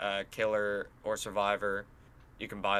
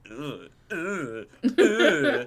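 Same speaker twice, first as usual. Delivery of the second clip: "ugh" of revulsion, climbing higher; disgusted groans; 4 semitones higher, 5 dB louder, much slower than usual. Shown as a demonstration. Player reacting to hideous new killer, disgusted groans. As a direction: act out recoiling in disgust, pitched up. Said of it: "that's your reaction when you're looking".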